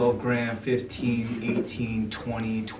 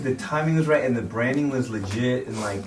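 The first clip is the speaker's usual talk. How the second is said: talking with mouth full; words round a bite of food. Real, not acted. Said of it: "without my mouth full".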